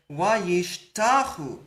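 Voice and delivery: slow, careful Hebrew wayishtachu; drawn-out Hebrew demo; Hebrew word. Shown as a demonstration. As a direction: sound out "Wayishtachu" syllable by syllable. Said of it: "So look what happens here".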